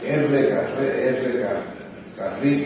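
stumbling on the R of "Carril", breaking off at "Carre-"; tangled Rs. Real, not acted. Speaker admits his Rs get tangled, stumbling on "Carril". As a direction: trip over the rolled R in "R, Car-" and restart. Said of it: "las R se me enredan en la boca".

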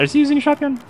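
sudden high-pitched shout; real panicked shout at teammates. Real, not acted. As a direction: yell the question in a panic. Panicked callout mid firefight.

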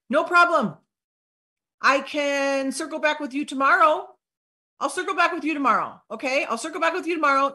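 lifted, easygoing reply; light, upbeat no-worries voice; breezy reassurance. Acted. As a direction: wave away the apology. Modelling a breezy reply to prospect.

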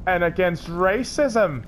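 mock trailer narration. Movie trailer style narration.

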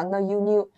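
N and YOU blended into "nyoo"; linked sounds. Shown as a demonstration. Teacher explains the liaison to learners, linked sounds. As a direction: show how N runs into YOU. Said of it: "在一起有个连读".

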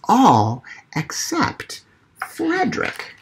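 put-on reading to children, gentle and measured; story reading. Storyteller reading Frederick to children, gentle. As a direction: draw the little ones into the story. Reads picture book aloud.

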